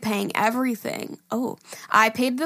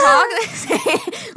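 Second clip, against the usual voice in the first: reading breaks into laughter, higher and louder; laughing while reading; 12 semitones higher, 6 dB louder, much slower than usual. Real, not acted. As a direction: giggle through the words. Reading email, bursting into laughter.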